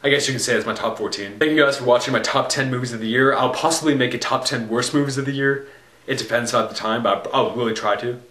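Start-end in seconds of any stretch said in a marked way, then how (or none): 1.4-8.2 talking through a sore throat. Real, not acted. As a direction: speak with a raw, sore throat. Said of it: "I have, like, a sore throat".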